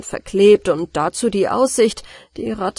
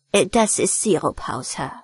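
cold-blooded; 2 semitones lower than usual. Acted. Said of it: "antwortete die Ratte ganz kaltblütig".

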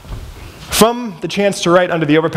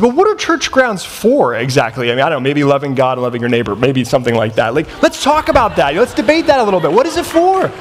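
frustrated challenge. Retold or imitated. Frustrated street sleeper debating church grounds with the man, challenging. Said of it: "I was pretty frustrated at that point".

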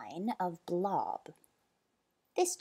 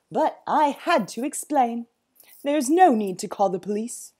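nervous; 3 semitones higher, 9 dB louder than usual. Acted. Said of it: "He was nervous of Sir Basil".

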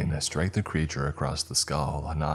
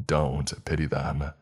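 gruff; slower than usual. Acted. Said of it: "he said gruffly".

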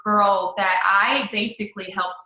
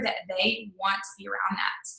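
hushed; 7 dB quieter than usual. Real, not acted. Emphasising passion, drops to hush.

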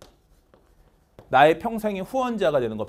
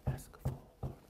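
whispered drill line; 20 dB quieter, much slower than usual. Shown as a demonstration. Teacher whispering the end of the drill, whisper. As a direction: drop to a bare whisper for this phrase.

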